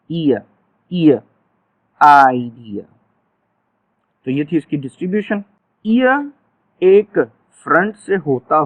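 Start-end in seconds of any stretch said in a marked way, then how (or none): 2.0-2.8 आइडिया said low and drawn out; आइडिया slow and low for the class; demo word. Shown as a demonstration. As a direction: model आइडिया with the final vowel clear. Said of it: "Finally में देखें".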